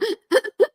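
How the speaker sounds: high mock ugly-cry wail; quick imitation of a child's sobbing; imitated ugly cry. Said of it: "you know, that ugly cry".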